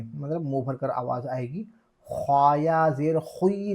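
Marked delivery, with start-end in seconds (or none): 2.1-3.7 खुई with a full, rounded heavy kh; wrong heavy खुई. Shown as a demonstration. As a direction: say खुई mouth-filled, with a w-glide. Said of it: "नहीं कहना है". (खुई को पुर (भारी) पढ़ना)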